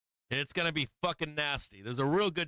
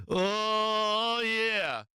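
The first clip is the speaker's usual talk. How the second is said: higher, louder, still laughing; gleeful yes through laughter; real laughing oh yeah; 5 semitones higher, 4 dB louder than usual. Real, not acted. Still laughing after the outburst.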